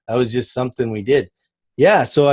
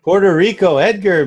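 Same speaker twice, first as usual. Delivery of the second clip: put-on Spanish accent, higher and louder; 7 semitones higher, 5 dB louder than usual. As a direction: roll out Puerto Rico with a Spanish accent. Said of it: "I probably have a terrible fake Spanish accent".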